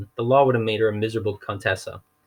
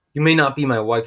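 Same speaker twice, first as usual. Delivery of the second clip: angry villain; 4 semitones higher, 5 dB louder than usual. Acted. Olaf rages at Violet.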